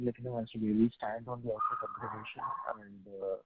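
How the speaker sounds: muffled voice, like a hand over the mouth. Real, not acted. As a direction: speak through a muffled line. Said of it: "your voice is muffled".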